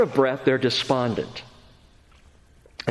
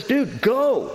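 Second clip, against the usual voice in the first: God's blunt command; 6 semitones higher than usual. Acted. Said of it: "He just says".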